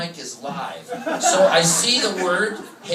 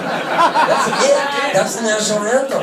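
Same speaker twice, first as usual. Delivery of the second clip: mock disbelief; 8 semitones higher, 6 dB louder, slower than usual. Arguing with Air Force guy.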